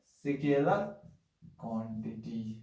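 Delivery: स्केलर lifted, then क्वांटिटी drawn out slow and soft; slow repeat. Shown as a demonstration. Teacher repeating the term to students, slow and drawn out. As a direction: stretch out स्केलर क्वांटिटी for the class to copy. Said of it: "क्या बोलते हैं?".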